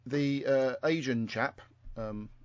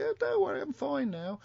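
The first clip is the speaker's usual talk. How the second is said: put-on a light stab at Maggie's Welsh accent, pitched up; higher mock Welsh lilt, half-hearted; imitating a Welsh accent she can't quite do; attempted Welsh accent; 9 semitones higher than usual. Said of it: "can't re-, do the accent".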